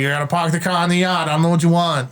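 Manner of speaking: lightly hammed-up New England boss. Playing a boss from the Northeast, New England accent. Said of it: "you got the boss, and he's like".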